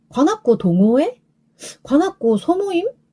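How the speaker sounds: high, unsure, doubtful questioning tone. Retelling how she introduced her group, acting out a doubtful question. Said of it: "이렇게 약간 의문을 가진 말투로 얘기를 하게 되는 거예요".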